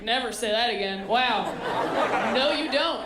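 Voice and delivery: a grandchild reacting to grandma's oversharing, disgusted; disgusted outburst. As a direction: shut grandma down hard. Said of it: "I'm like".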